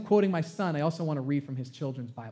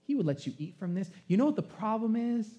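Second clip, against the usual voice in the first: sneaky snake tempter; 3 semitones higher than usual. Acted. Preacher voicing the tempting snake.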